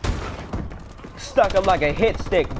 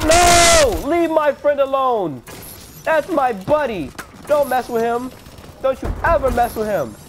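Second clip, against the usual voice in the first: protective shout; 5 semitones higher than usual. Pretend. Gamer guarding his downed teammate, high heroic shout. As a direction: roar to defend a fallen buddy. Mock hero defending buddy.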